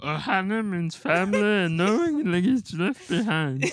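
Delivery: high cartoon alien voice; imitating Stitch. Quoting Stitch to a laughing friend. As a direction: do the line like a little alien. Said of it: "You sound like Yoda".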